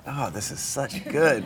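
breathy whispered delight. Real, not acted. Host echoing the sleepy hush, whispering. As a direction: whisper your approval back. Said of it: "whispering along".

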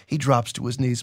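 steady, measured reading of a novel passage; story narration. A narrator's reading. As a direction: read it like a dramatic audiobook. Host reads novel passage aloud.

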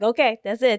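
hammed-up wail about retreating home; mock panicked cry. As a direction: playfully cry out in fake panic. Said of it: "I'm gonna be like".

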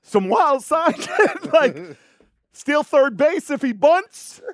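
high, slow, laughing through it. Real, not acted. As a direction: crack up while describing it. Laughing describing gang signs.

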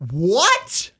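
retold surprise. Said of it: "Dana goes".

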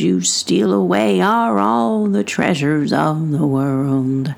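put-on slow, lightly sung old fisherman; hint of a gruff old sailor singing. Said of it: "sing it in an old fisherman's voice".

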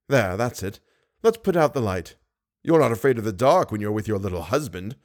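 lightly voiced villain, deliberate menace; taunting monster. Monster taunts Christine about the chamber, menacing.

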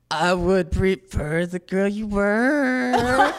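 a sick voice breaking mid-line; voice cracking. Retold or imitated. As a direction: force the line out through a shot, cracking voice. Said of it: "That's like villain".

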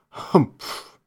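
breathy, unvoiced disdainful grunt; a lazy camel snorting contempt; grumpy camel humph.

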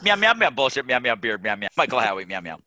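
meowing cat muttering words; nervous cat voice. Pretend. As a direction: mix meows with words like a cat. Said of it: "that cat from Mister Rogers".

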